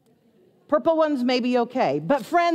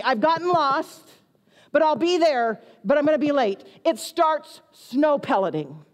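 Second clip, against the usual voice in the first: mock despair; 3 semitones higher than usual.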